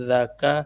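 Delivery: "ذاکا" with a gentle th-like ذ; "ذاکا" opening on a light, soft ذ; soft Zal. Shown as a demonstration. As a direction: soften the first consonant of "ذاکا". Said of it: "ذال کو نرمی سے".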